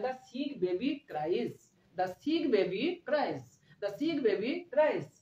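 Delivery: very slow, drawn-out model sentence; slow dictation. Shown as a demonstration. Teacher gives beginner students the English translation, very slowly. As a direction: stretch each word out for learners.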